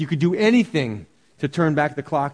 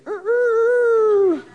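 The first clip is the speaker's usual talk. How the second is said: mock rooster crow; 4 dB louder than usual. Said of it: "they would stand behind him and say".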